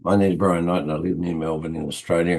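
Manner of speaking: hoarse, croaky morning voice; rough croaky voice from a cold. Real, not acted. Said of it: "I got a croaky voice".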